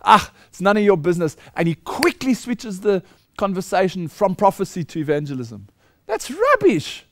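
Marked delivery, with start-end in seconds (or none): 0.0-1.4 louder, mocking brush-off; imitating the pastor's dismissive shrug; mocking dismissal. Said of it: "He says". 6.1-7.1 much higher, outraged exclamation; a sharp, high cry of outrage; indignant outburst. Real, not acted. Preacher rejects pastor's claim.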